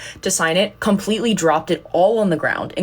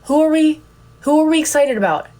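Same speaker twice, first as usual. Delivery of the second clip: excited hype call; 9 semitones higher, 3 dB louder than usual. Retold or imitated. Crowd hype at premiere.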